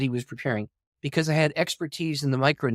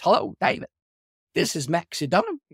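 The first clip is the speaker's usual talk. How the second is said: higher-pitched Southern phone greeting; Southern accent; 3 semitones higher than usual. Retold or imitated. Famous author phones a new writer, in a Southern accent. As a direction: imitate a Southern man on the phone. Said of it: "this man with a Southern accent".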